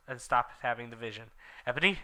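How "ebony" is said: worried. Acted. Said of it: "asked Draco in a worried voice".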